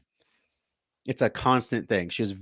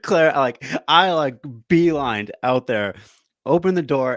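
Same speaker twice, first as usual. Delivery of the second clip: worked-up retelling; 3 semitones higher, 5 dB louder, slower than usual. Retold or imitated. Rushing out to confront daughter.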